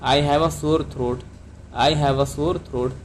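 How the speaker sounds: slow, clear model sentence for learners; careful classroom dictation pace; slow teaching model. Shown as a demonstration. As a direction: say it slowly so students can repeat. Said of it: "तो इसकी English क्या होगी?".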